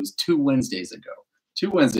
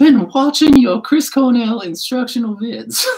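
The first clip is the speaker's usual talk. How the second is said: very high, loud, put-on Southern woman accent; 12 semitones higher, 5 dB louder than usual. Acting out what Stone said, playing Stone in a Southern woman accent. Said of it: "I'm going to play Stone in a Southern woman accent".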